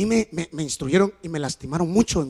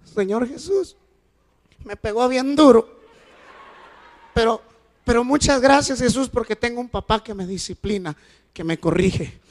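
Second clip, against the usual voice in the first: lightly voiced child, higher; daughter's prayer; 3 semitones higher than usual. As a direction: pray like a grateful little girl. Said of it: "Ore usted por mí".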